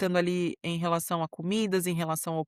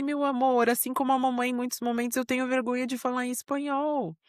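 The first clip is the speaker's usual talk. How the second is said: put-on higher-pitched voice for a child; soothing mum talk, pitched up; retold tender mother; 7 semitones higher than usual. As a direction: gently confide in your little one. Mother comforting her son, retold.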